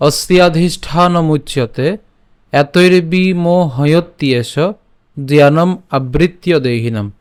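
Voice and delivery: slow, syllable by syllable Sanskrit reading; measured scripture recital; slow verse recitation. Shown as a demonstration. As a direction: recite each word clearly and slowly.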